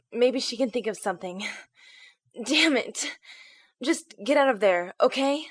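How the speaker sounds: loud, desperate commands; urgent order. Acted. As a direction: bark out the order to flee. Desperate order over comm.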